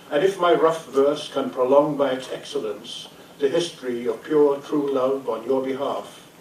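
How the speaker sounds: measured, declaimed sonnet with pauses between phrases; poem reading. Acted. Poet reads a lament for a drowned beloved, solemn recitation.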